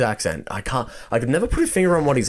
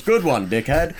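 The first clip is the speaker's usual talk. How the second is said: imitated jibe, pitched up; quoted osteopath's jibe; 5 semitones higher than usual. Retelling the osteopath's put-down to a friend, imitated jibe. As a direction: play the scoffing osteopath, higher than yourself. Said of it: "He goes".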